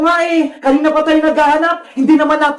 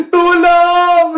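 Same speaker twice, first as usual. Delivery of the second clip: drawn-out shout for rescue; cry for help; 4 dB louder than usual. Acted. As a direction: call out from captivity. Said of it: "Parang boses yun ni Bebang". (pasigaw na paghingi ng saklolo)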